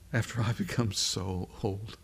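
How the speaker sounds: lightly acted old woman musing to herself; understated, private aside of an amused old woman; Sarah, chortling to herself. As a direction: muse to yourself, a touch amused. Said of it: "do this in Sarah's voice".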